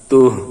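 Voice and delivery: তুহ with a full, heavy final h; heavy ending. Shown as a demonstration. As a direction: end তুহ on a stopped, weighty হ. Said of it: "শেষের হাটি গোল হাত, তাই ভারী উচ্চারণ হবে". (তুহ শেষে ভারী হ দিয়ে থেমে)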